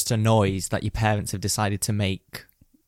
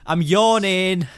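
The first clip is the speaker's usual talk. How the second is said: slow, high, drawn-out insistence; exasperated insistence; 7 semitones higher, 4 dB louder, much slower than usual. Retold or imitated. Repeating it to people who won't believe, exasperated. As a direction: stretch it out in weary mock protest. Gives up arguing, repeats claim.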